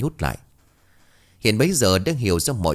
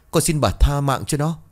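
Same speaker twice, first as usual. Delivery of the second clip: higher, rising tearful begging; whimpering plea; 6 semitones higher than usual. Acted. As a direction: beg for her life, voice lifting higher. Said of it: "mếu máo".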